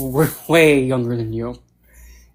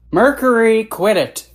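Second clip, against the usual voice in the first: real scolding; 7 semitones higher, 5 dB louder, slower than usual. Real, not acted. Scolding another pet live.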